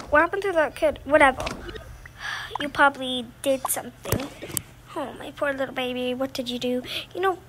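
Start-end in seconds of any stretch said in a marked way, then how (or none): 4.9-6.8 softer, fast soothing coo; tender mom. Acted. Mother cooing over her sick little girl, soft and tender.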